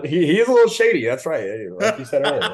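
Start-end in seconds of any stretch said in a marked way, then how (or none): 0.0-1.0 high, loud and quick teasing; a mock-scandalised aside; playful jab. Real, not acted. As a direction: rush out the accusation with glee. Playful accusation of Krabs.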